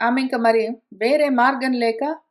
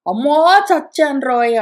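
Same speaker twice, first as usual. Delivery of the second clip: louder anguished cry; 5 dB louder than usual. Acted. Kunti hearing Madri's call, crying out in dismay. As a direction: let out a wail of dismay. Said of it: "అరుస్తూ".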